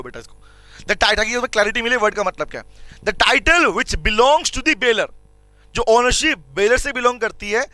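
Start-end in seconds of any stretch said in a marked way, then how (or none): 3.0-5.1 very slow, stretched phrases with pauses; slow dictation. Shown as a demonstration. Teacher dictating a definition for students to copy down. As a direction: dictate it bit by bit. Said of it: "लिखो".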